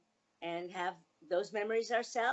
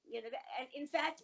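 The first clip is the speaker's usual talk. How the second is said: ordinary talk, nothing marked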